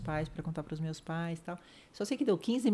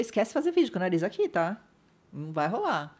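louder quick no-nonsense; blunt surgeon; 2 semitones higher, 4 dB louder than usual. Retold or imitated. Surgeon dismissing the videos, blunt and quick. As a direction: brush the idea off firmly. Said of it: "Ele falou".

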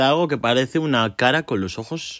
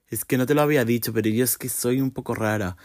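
rushed mock confession. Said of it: "si dice simplemente".

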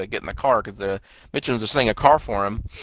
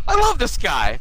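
high, delighted imitation; gleeful high-pitched retelling; mock elation; 12 semitones higher, 4 dB louder, slower than usual. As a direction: exclaim it high, as if celebrating. Acting out character celebrating check.

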